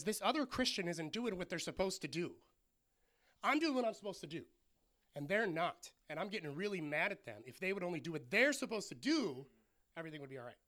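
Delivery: mildly frustrated, imitated complaint; a touch of mock exasperation with emphatic stresses. Martha complaining about Mary, mildly frustrated. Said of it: "really frustrated at Mary".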